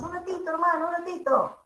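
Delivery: a friendly Peruvian ratito, hermano; Peruvian accent. Shown as a demonstration. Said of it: "Y en Perú decimos".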